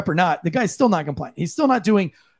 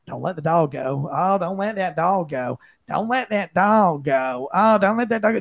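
mocking his tone. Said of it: "He's sitting there going".

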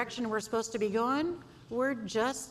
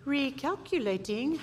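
mock sat-nav announcement; GPS voice; 5 semitones higher than usual. Wife imitating the hated GPS word. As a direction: say it like the robotic GPS. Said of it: "the word you hate to hear".

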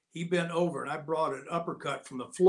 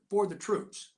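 sarcastic emphasis; 5 semitones higher, slower than usual. Shown as a demonstration. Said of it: "Now you hear that word".

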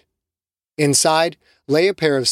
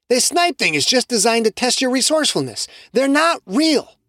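higher, firm dismissal, slowing at the end; dismissive Carlos; 10 semitones higher than usual. Acted. Carlos dismissing Shamiqua's theory, higher firm voice. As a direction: wave the idea away.

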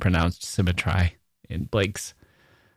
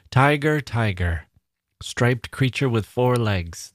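flat mock line, slower on "striped creature with four legs"; deliberately dull version; 3 semitones higher than usual. Shown as a demonstration. Teacher showing students a weaker rewrite, mock bland. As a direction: read it as a bland alternative. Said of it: "That wouldn't do it".

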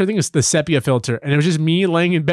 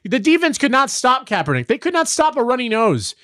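getting mad; 7 semitones higher than usual. Real, not acted. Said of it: "now I'm getting mad".

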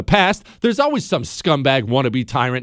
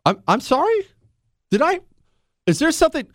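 high, stunned sorry?; can't believe what he just heard; pitched-up shocked double take; incredulous disbelief; 12 semitones higher, faster than usual. Real, not acted. Host stunned by Biden clip.

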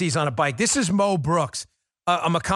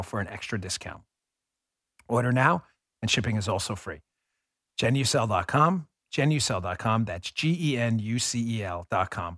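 ad read; 6 semitones lower, 3 dB quieter than usual. Acted. Reads a sponsor ad.

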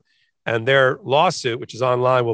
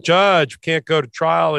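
lightly put-on Texas accent, a little higher; 3 semitones higher than usual. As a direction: play the opposing lawyer with a hint of Texan. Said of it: "I'm using a Texas accent".

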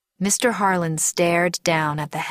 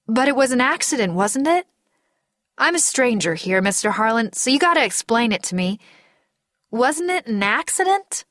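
higher-pitched, innocent-sounding questioning; coaxing question; 5 semitones higher than usual. Acted. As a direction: gently press him for an explanation. Narrator coaxing grieving man to explain.

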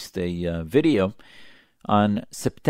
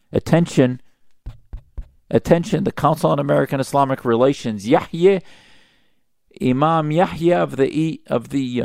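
louder, emphatic call for attention; mock public announcement; 5 dB louder than usual. Commentator calls on the Council to take notice, pointed mock announcement.

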